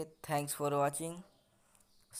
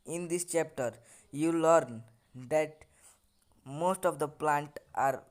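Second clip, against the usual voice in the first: slow, word-by-word English reading; textbook read-aloud; 2 semitones lower, much slower than usual. Acted. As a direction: read the lesson out slowly, in separated chunks. Reads lesson text aloud slowly. (धीरे-धीरे पाठ पढ़ते हुए)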